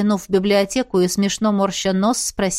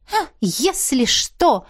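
mocking mimic; 7 semitones higher, much slower than usual. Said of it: "передразнила я".

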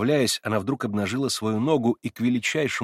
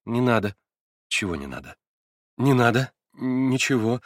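short, clipped refusals, louder by the end; curt and annoyed; 3 semitones higher, 3 dB louder than usual. A narrator's reading. Girl refusing to give her name, curt and annoyed. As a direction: brush him off with irritation. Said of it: "Отрывисто и как будто с досадой".

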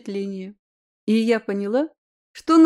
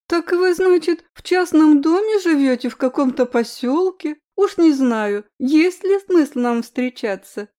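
capricious diva, higher and louder; whiny spoiled pouty drawl; 4 semitones higher, 4 dB louder than usual. Acted. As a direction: pout like a spoiled starlet. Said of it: "закапризничала несостоявшаяся кинодива".

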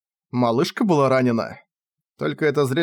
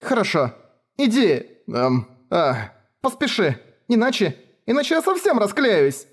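much higher, breaking voice; girl close to tears; 7 semitones higher than usual. Acted. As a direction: hold back the tears. Кефар вот-вот расплачется. (Кефар едва сдерживает слёзы)

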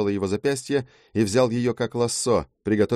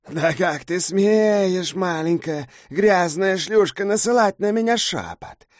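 slow, higher, louder scornful harpy voice; outraged harpy; 10 semitones higher, 3 dB louder, slower than usual. Acted. Harpy Kai sneering at Jo for her whisper. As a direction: drag each insult out with contempt.

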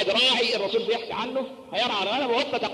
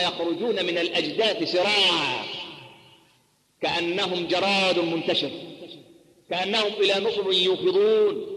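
recitation; slower than usual. Acted. Quran verse quoted in sermon.

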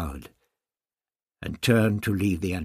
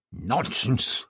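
gasped; 3 semitones higher, 5 dB louder than usual. A narrator's reading. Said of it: "the doctor gasped".

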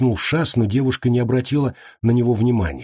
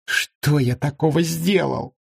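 high, drawn-out plaintive question; plaintive protest; 7 semitones higher, slower than usual. A narrator's reading. Lebra protesting to the monk, plaintively. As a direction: protest slowly, as if unfairly burdened. Accused friend protests being summoned.

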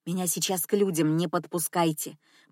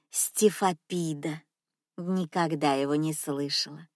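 put-on soft old lady; 4 semitones lower, 4 dB quieter than usual. Old lady misreads name softly.

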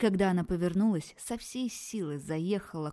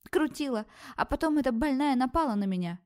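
high, loud squealing complaint; she-wolf squealing an accusation, high and loud; shrill squeal; 7 semitones higher, 4 dB louder than usual. Acted. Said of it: "заверещала обнаглевшая волчица".

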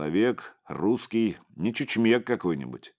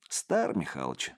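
inner thought; 5 semitones lower, 6 dB quieter than usual. A narrator's reading. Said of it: "и подумал".

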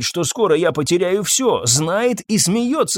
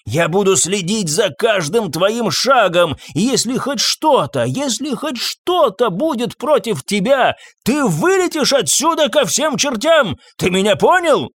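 furious threat; 7 semitones higher than usual. Acted. Master to groom, furious threat. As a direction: swear you'll be watching him.

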